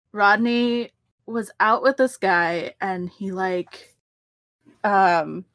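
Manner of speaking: slow, lazy stoner drawl; lightly voiced stoner. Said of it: "I'm gonna drop out of stoner voice".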